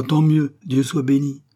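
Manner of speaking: voiced with emphatic gladness; exclaimed relief. A narrator's reading. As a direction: exclaim it as the delighted king. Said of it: "s'écria le roi".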